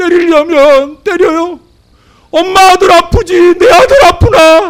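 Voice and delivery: put-on high, loud, tearful crying child's wail.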